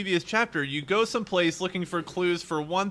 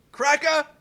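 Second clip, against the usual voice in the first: higher, louder mock heckle; imitated yell; 10 semitones higher, 6 dB louder than usual. Retelling a stranger's shout from the garage background, mock yell. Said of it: "you hear in the background someone yell".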